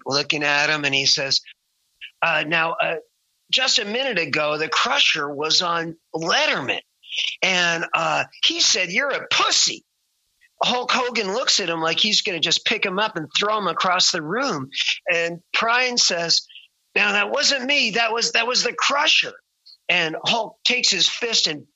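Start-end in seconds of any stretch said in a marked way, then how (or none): 2.2-9.8 innocent mock politeness. Prine explains to Hogan. 16.9-19.3 higher, mock innocent protest; innocent denial. Prine dodges blame, higher.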